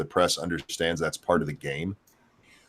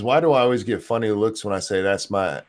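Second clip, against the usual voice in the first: put-on thick Southern accent. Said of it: "is it my thick Southern accent?".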